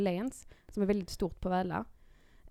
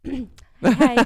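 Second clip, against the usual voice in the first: put-on high, loud little child greeting; cheeky child voice; 5 semitones higher, 14 dB louder than usual. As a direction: play the giggling runaway kid.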